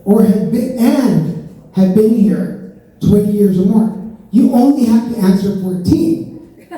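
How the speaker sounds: slow, deliberate reading of fine print; reading the booklet. Retold or imitated. Comic reading the citizenship booklet rule slowly. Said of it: "it says".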